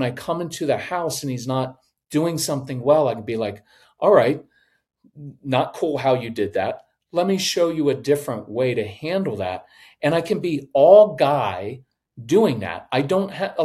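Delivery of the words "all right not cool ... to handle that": calm, measured correction; pause, then correct without heat; even matter-of-fact. Acted. Dad correcting his son at home, even matter-of-fact. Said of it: "the even matter of fact tone".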